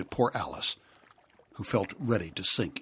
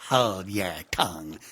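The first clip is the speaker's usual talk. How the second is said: impatient Gryphon; 5 dB louder, slower than usual. Acted. Gryphon urging the Mock Turtle on, loud and impatient. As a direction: hurry him along.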